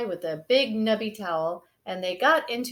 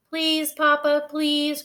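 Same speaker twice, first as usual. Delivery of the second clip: put-on higher, louder begging child voice; pleading little sister; 6 semitones higher, 4 dB louder, slower than usual. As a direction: beg like a small cub. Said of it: "cried Sister".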